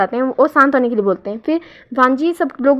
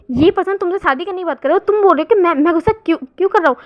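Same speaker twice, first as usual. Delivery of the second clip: higher-pitched jealous protest; a jealous lover's indignant outburst, pitched higher; angry outburst; 5 semitones higher, faster than usual. Retold or imitated. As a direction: raise the pitch in indignant disbelief. Jealous lover confronts Wing angrily.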